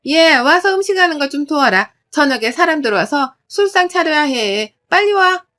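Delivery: loud, high, impatient order; demanding in-law calling her over; bossy mother-in-law. Acted. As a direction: bark the summons like a domineering mother-in-law. Mother-in-law summons daughter-in-law.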